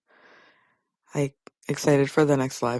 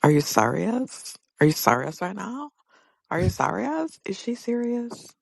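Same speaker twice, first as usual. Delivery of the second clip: mocking Robin; 3 semitones higher than usual. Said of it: "Robin saying".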